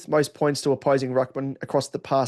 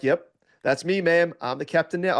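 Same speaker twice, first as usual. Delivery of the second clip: lightly put-on American pilot voice; American accent; 3 semitones higher than usual. Host playing co-host as pilot to admirers, American accent. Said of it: "you've got an American accent".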